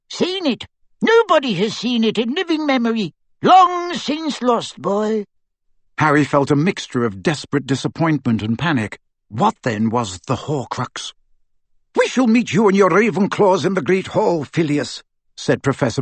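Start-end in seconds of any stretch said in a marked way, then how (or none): 0.1-5.2 put-on high, light voice of a tiny old wizard; a squeaky little professor, dry and wise; small professor voice. A narrator's reading. A small professor answering Harry, high and dry. 11.9-15.0 higher, crisp commanding witch; a brisk headmistress giving orders; stern professor. A narrator's reading. A stern witch instructing a fellow teacher, crisp. McGonagall voiced.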